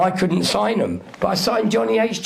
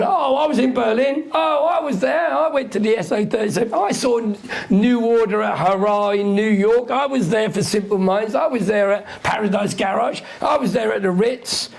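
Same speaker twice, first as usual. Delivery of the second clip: mock boastful name-dropper. Mocking name-dropping clubbers.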